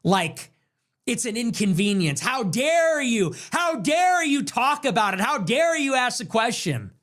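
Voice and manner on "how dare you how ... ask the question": hammed-up "how dare you", mimicking the critic; mock outrage. Mock outrage paraphrasing the speaker.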